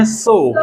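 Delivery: "so" with one pure o. Shown as a demonstration. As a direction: keep "so" unglided. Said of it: "हम बोलते हैं".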